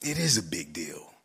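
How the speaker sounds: a hushed, insistent whisper; intense whisper. Retold or imitated. Teacher to colleagues, a firm whisper.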